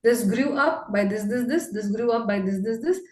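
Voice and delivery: imitating a rote run-through of figures; mock reciting. Coach mimics the trainee just listing growth facts, mock reciting. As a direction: reel it off repetitively, like a list. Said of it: "आप बस बता रहे हो".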